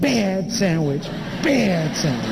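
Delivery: tut-tut at it like a naughty pet, slowly; mimicking flight attendant. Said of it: "and she went".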